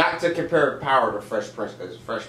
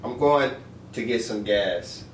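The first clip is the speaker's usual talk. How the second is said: halting attempt at an English accent; put-on English accent; 3 semitones lower than usual. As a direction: try an English accent, pausing midway. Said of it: "in an English accent".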